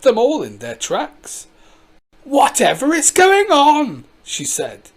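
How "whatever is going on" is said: put-on stern old woman. Granny halts the crowd.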